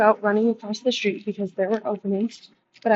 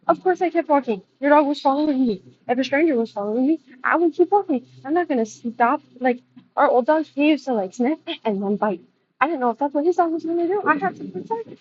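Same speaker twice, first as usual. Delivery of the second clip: indignant; 5 semitones higher, 4 dB louder than usual. Real, not acted. Defending why she kept walking.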